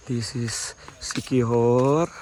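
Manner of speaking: slow, deliberate naming of "Siquijor"; slow retake. Shown as a demonstration. Vlogger names the towns again for viewers, slowly and clearly.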